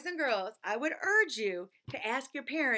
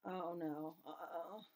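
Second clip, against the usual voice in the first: silly sounds; 6 semitones lower, 11 dB quieter, slower than usual. Acted.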